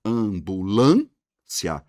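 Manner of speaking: "Ambulância" very slowly by syllables, LÂN drawn out; stress on LÂN. Shown as a demonstration. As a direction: stretch and lift the LÂN in "Ambulância". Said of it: "a sílaba mais forte é o lã".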